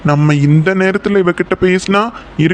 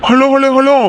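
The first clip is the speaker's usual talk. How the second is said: calling for attention; 7 semitones higher than usual. Acted. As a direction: wave her down with your voice. Calming an angry girl.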